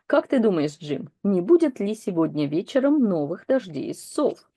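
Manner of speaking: steady newsreader style; read-aloud news text. Acted. Teacher reading the owl news story to learners, in a newsreader style. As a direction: read it like a broadcast bulletin. Reads the anchor's question.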